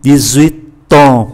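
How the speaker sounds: "Dix-huit ans" linked as di-zui-tan; liaison. Shown as a demonstration. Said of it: "Chúng ta nối X qua chữ U". ("Dix-huit ans" đọc nối x thành z)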